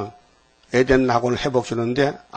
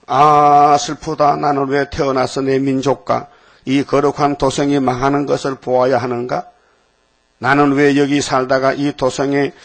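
lament. Acted. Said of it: "마카비 대표자가 탄식하는 거예요".

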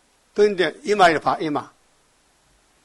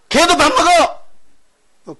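drawn-out high mocking yell, much louder; mocking shout; 11 semitones higher, 4 dB louder, much slower than usual. Preacher ridiculing the congregation, a slow high mocking shout. Preacher mocks eating without obedience.

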